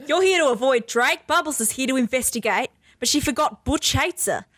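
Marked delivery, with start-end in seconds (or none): 0.1-1.3 put-on Aussie accent. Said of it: "That in an Aussie accent".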